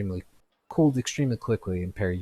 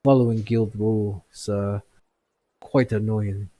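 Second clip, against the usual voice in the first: a touch louder, knowing complaint; wry agreement; 5 dB louder than usual. Acted. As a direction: grumble about guild rules with a chuckle. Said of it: "chuckles and goes".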